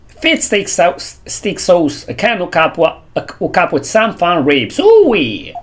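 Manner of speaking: badly faked Texas accent, rising to a whoop. Streamer fumbling a lawman's line, attempted Texas accent. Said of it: "I cannot do the, the, the, um, the accent".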